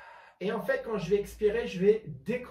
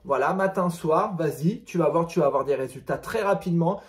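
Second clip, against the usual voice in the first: excited; 2 semitones lower, 6 dB louder than usual. Real, not acted. Upbeat video sign-off.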